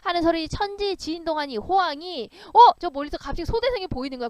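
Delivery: normal talking voice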